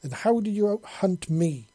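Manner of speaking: high, loud indignant demand; loud exclamation. A narrator's reading. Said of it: "she exclaimed loudly".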